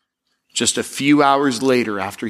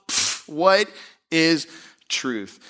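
scoff; 3 semitones higher, much slower than usual. Shown as a demonstration. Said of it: "This is a scoff".

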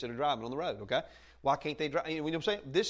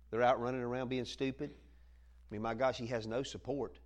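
mock pious gossip; 5 semitones lower, 3 dB quieter than usual. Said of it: "You'll hear people say".

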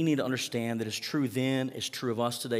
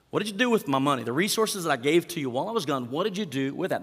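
demanding master; 3 semitones higher, 3 dB louder than usual. Acted. Master questions his servants, mildly stern. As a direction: press the servants for an account.

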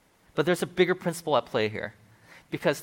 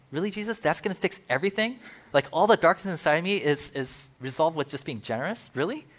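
a disbelieving churchgoer questioning Jesus, raised pitch; incredulous. Retold or imitated. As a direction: push back on Jesus in disbelief. Skeptical listener voice.

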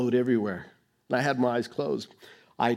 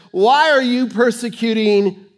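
voice of Jesus; 6 semitones higher, 7 dB louder, slower than usual. Retold or imitated. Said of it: "And Jesus says".

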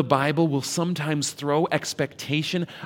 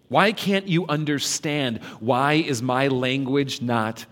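exasperated; 3 dB louder than usual. Acted. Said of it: "Can you hear the exacerbation in Jesus' voice".

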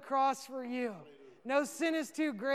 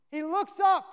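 rising awe; 6 semitones higher, 7 dB louder than usual. Real, not acted. Climax of Stephen's vision.

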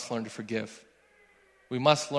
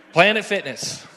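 punchline exclaimed; 6 semitones higher, 7 dB louder than usual. Real, not acted. Punchline about driving by gym.

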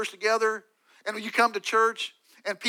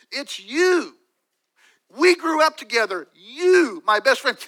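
higher and louder, pained, the betrayal cutting through; anguished accusation; 5 semitones higher, 8 dB louder, slower than usual. Acted. David accuses his betrayer, pained and loud. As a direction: cry it out at the friend who turned on you.

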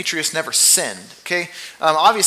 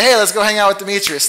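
louder, quick and eager; cheerful invitation; 4 semitones higher, 6 dB louder, faster than usual. Retold or imitated. Preacher acting a friend suggesting time with Demetrius, eager. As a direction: pitch it like a happy invite. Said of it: "where you say".

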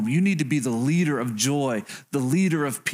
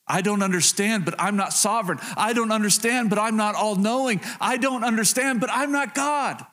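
building conviction; 5 semitones higher than usual. Real, not acted. Preacher confessing limits to congregation, rising conviction. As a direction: pitch climbing with each repeated phrase.

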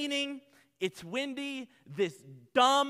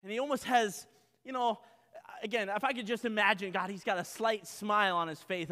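usual speaking voice

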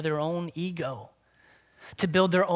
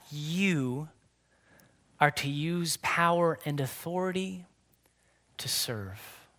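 fading to a whisper; 4 dB quieter than usual. Real, not acted. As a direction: trail off into a soft whisper on serve. Preacher drops into whisper.

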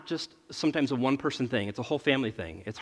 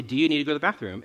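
quick routine question; much faster than usual. Retold or imitated. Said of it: "I'll say".

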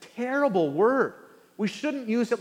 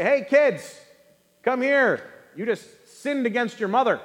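mock parent call; 3 semitones higher, 4 dB louder than usual. Parent calling kids.

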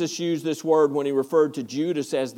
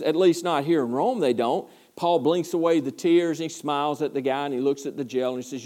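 usual speaking voice

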